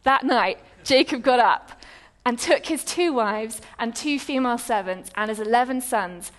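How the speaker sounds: measured Bible reading voice; scripture reading. Acted. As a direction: read the passage out with weight.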